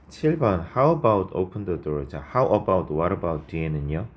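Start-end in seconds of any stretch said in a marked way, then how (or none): 0.8-2.1 slow reading of the faulty phrase; reading the wrong version. Shown as a demonstration. Teacher reading the wrong sentence slowly for students. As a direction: read the error out slowly. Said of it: "open이 아니라 opening이 맞겠죠".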